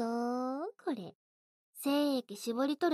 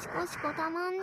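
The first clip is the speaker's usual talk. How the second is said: シコシコたまんね said higher and more excited; シコシコたまんね raised, teasing; 6 semitones higher than usual. Acted. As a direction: lift the second シコシコたまんね up in pitch. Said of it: "repeated take, higher".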